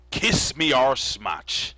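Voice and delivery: loud, slow drawn-out announcement; ring announcer. Acted. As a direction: stretch the match name like a ring announcer. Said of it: "Nicely said".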